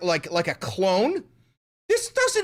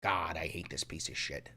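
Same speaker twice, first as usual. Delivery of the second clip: exhausted mutter; 13 semitones lower, 14 dB quieter than usual. Real, not acted. Collapsing after rant.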